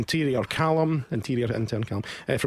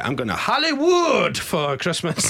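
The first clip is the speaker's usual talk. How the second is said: hammed-up Hollywood announcement; mock glamorous brag; odd showbiz voice; 3 semitones higher than usual. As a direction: sell it like a film trailer. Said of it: "What was that?".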